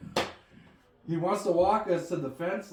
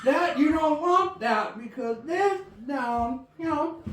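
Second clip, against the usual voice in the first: Mudbone impression; 5 semitones higher than usual. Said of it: "Granddad sounds like Mudbone".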